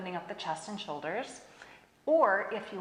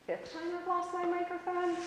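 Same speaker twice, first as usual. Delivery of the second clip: laughing; 11 semitones higher than usual. Real, not acted. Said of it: "I'm laughing because".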